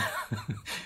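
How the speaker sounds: quiet breathy chuckle; soft mocking laugh. Real, not acted. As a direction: chuckle at them from afar. Laughs at overseas critics. (轻声嘲笑)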